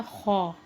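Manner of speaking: "खौ" said with rounded au, not "खे"; Arabic khaa. Shown as a demonstration. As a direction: say "खौ", never Urdu khe. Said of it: "इसको खे नहीं पढ़ना". ("खौ", खे नहीं)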